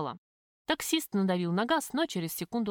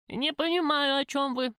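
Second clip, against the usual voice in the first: put-on higher, creaky old-woman voice; pitched-up, creaky disguise voice; 6 semitones higher than usual. A narrator's reading. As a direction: creak it out like a frail old lady. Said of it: "скрипучим голосом спросила я".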